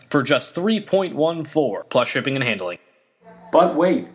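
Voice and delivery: pushy TV pitchman; infomercial. Acted. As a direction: sell it hard like a late-night ad. Parody infomercial sales pitch.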